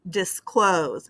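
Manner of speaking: disclose with CLOSE stronger; dis-CLOSE, demonstrating the accent; stress on second syllable. Shown as a demonstration. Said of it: "dropped on that second syllable".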